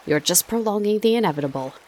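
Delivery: impatient South African taunt; pushing South African sneer; South African accent. A narrator's reading. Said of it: "in his sharp South African accent".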